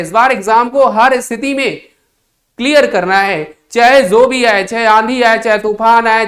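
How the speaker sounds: loud, fired-up student vow; rally yourself like a cadet swearing to pass; determined student. Acted. Acted student's determined exam answer. (जोशीले छात्र की ऊँची आवाज़ में प्रतिज्ञा)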